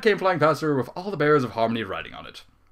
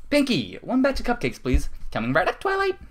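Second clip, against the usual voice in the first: higher, brighter character voice for the ponies; lightly voiced pony dialogue; 11 semitones higher than usual. Twilight orders cupcakes, Pinky answers in a lightly voiced pony tone.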